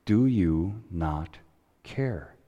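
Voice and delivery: quiet cry. Retold or imitated. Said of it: "we might cry out like the disciples".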